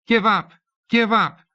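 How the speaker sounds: high, loud cry, hoarse from yelling. A narrator's reading. Girl yelling at tutor during raid game, hoarse cry. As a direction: yell it as a battle demand. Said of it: "Mika cried, hoarse from yelling".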